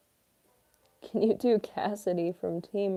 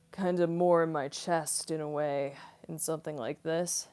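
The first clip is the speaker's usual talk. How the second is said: lightly voiced muscle mommy, a little more from the chest; a hint of chesty muscle mommy. Shown as a demonstration. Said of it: "muscle mommy voice".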